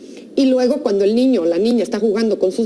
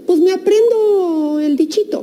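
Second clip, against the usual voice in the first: ironic; 10 semitones higher than usual. Real, not acted. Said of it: "ironic, pitch jump".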